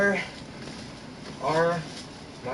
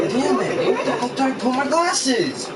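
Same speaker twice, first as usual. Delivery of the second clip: sharp, louder curse at lost glasses; frustrated outburst; 6 semitones higher, 3 dB louder than usual. Real, not acted. Alone in his room, he snaps angrily at his missing glasses. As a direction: snap it out, fed up.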